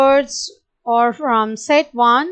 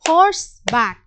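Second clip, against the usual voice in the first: horseback pitched higher as the call; 4 semitones higher than usual. Shown as a demonstration. Teacher calling horseback high for the class. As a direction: horseback sung up high first. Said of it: "this is a two syllable word".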